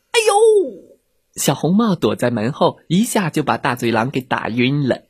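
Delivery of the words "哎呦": yelp of pain. Acted. Wolf is hit by door.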